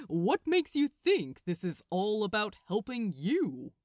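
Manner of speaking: a smug angel turning the question; Gabriel, amused. Acted. Gabriel challenging Crowley, a touch smug.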